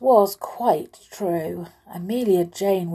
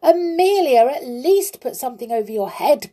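high, loud call after someone; urgent raised-voice plea; 6 semitones higher, 6 dB louder than usual. A narrator's reading. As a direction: call out the name, then urge. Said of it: "cried the clown".

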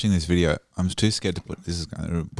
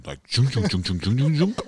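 rhythmic junk junk sound effect; imitated sinus throb; 6 semitones higher than usual. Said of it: "my sinuses literally going".

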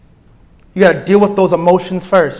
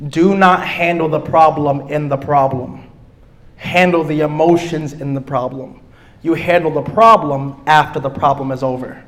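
slow emphatic restatement; 3 semitones lower than usual. Shown as a demonstration.

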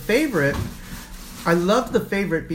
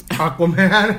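laughing; 6 dB louder, slower than usual. Real, not acted. Laughing at an Aquaman nomination.

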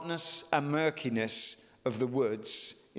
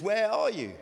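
voice of God calling; 6 semitones higher than usual. Acted. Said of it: "He says".

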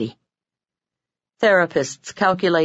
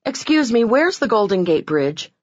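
calling out; 5 semitones higher than usual. Retold or imitated. Calling to next couple.

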